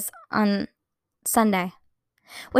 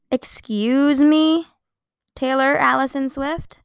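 drawn-out, higher, laughing Excuse me; mock outrage; 5 semitones higher, 4 dB louder, slower than usual. Real, not acted. Scolding a singer for the surprise album, laughing and slow. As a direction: stretch it out in amused disbelief.

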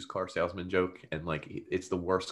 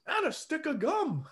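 much higher, quick indignant add-on; quick petty Mario. Retold or imitated. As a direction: squeak out the petty correction. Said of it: "And Mario real quick goes".

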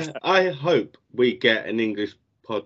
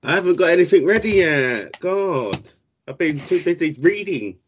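a higher, lightly voiced Liam; Liam impression; 5 semitones higher than usual. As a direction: mimic Liam's voice a touch higher. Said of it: "Good Liam impression".

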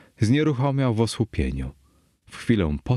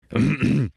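throat-clearing cough; acted cough; 6 semitones higher than usual. Fortunato coughing in the damp catacombs, acted throat-clearing. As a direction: clear the throat in character, slightly raised.

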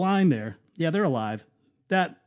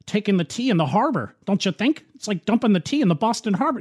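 lightly voiced naive commenter, quick and a little higher; mocking quote; 4 semitones higher than usual. Host mimics people online comparing vodka to the Boston Tea Party, lightly mocking. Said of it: "a lot of people were saying".

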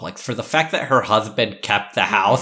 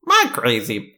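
flat female robot voice; slower than usual. Pretend. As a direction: read it like a text-to-speech robot. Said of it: "can you say it as the female robot voice".

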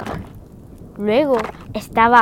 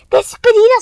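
tiny shrunken Scrooge; 10 semitones higher, 8 dB louder than usual. Acted. Scrooge shrunk, saying goodbye.

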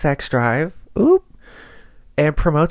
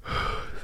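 soft yawn; 11 dB quieter than usual. Real, not acted. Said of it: "Sorry, I'm yawning again".

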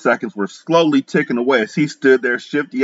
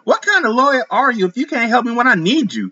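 high, desperate whiny plea; mistress pleading; 13 semitones higher than usual. A narrator's reading. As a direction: beg the lawyer for help.

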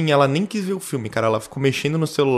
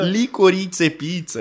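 "Licorice Pizza" said slowly in an Italian accent; Italian accent on "Licorice Pizza", drawn out; 4 semitones higher, much slower than usual. Real, not acted. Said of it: "não consigo falar sem fazer sotaque italiano".

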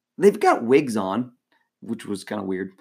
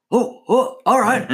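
high, delighted little ohs, then agreeing; Shaq; 11 semitones higher, 3 dB louder, slower than usual. Retold or imitated. Big player agreeing to throw mascot in foam pit, delighted. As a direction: imitate someone lighting up at a fun idea. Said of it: "he got this look on his face".

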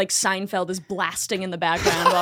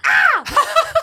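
very high crow squawk; cawing like a crow; 4 dB louder than usual. Retold or imitated. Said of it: "she'd go".

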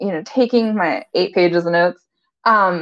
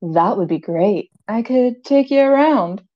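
sexy voice. Retold or imitated. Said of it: "what he believes his sexy voice".

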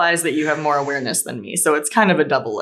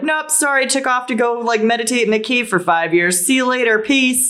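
shopkeeper voice; 5 semitones higher than usual. Retold or imitated. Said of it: "they were like".

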